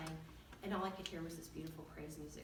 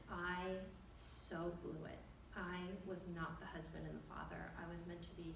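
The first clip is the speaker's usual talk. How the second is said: retold humble confession; 6 dB quieter than usual. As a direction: confess quietly, taking your time at first. Husband kneels and confesses.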